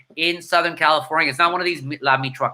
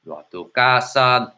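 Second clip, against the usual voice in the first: Antonio voice; 3 semitones lower than usual. Retold or imitated. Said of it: "I gotta get my Antonio voice".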